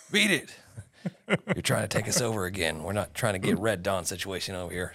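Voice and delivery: mock warning. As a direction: playfully shoo off the intruders. Acted warning to sneaking foreign teams.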